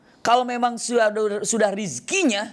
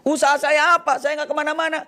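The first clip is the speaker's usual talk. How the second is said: indignant protest; 9 semitones higher than usual. Acted. Student argues he made no effort, high indignant protest. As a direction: push back, insisting you did nothing.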